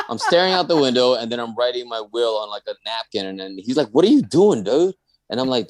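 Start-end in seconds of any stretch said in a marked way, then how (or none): 3.9-4.9 high, loud startled "what are you doing"; alarmed question. Retold or imitated. Friend wakes to find him writing a will, high alarmed shout. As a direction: jolt up, alarmed at what he sees.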